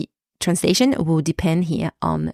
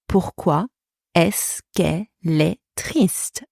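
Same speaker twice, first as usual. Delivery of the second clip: slow demo. Shown as a demonstration. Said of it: "Est-ce que method?".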